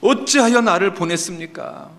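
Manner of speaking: acted indignant lament; complaining to God. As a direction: throw the question up as a grievance. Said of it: "하나님께 막 불평을 하고 있습니다".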